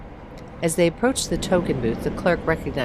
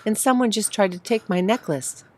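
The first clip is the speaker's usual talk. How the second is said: breathing hard; 6 semitones higher than usual. Acted. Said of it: "breathing hard".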